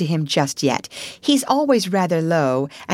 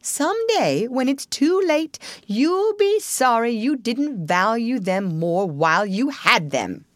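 higher-pitched, insistent scolding; reproachful; 7 semitones higher than usual. A narrator's reading. Rat scolding Toad over his loyal friends, reproachfully. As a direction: lay on the guilt, point after point. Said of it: "said the Rat reproachfully".

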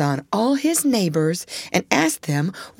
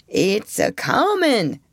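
put-on grumbly old beaver; 3 semitones higher, slower than usual. Granddaddy voiced in story.

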